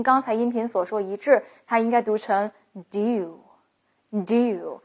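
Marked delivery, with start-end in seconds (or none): 2.9-4.8 "do" and "you" merged into one syllable; linked do you. Shown as a demonstration. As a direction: run "do you" together as "dyoo". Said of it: "他把两个词合在一起去读了". (把 do you 连成一个音读)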